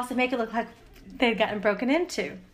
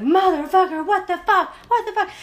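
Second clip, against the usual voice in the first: loud mock fury, rising higher; cussing husband; 8 semitones higher, 6 dB louder than usual. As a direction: imitate an angry husband swearing, pitch climbing. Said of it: "we could hear him cussing".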